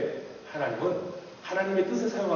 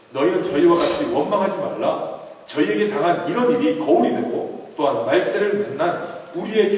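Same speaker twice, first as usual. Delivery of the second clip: louder, solemn recitation of the verse; scripture reading; 4 dB louder than usual. Acted. Preacher reading Corinthians to the congregation, solemn. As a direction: read the Bible passage with weight.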